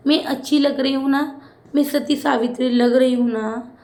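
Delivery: sing-song taunting copy of a housemate; mock Tanya. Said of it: "Ashnoor ने भाई तान्या की acting की और ज़बरदस्त वाली की".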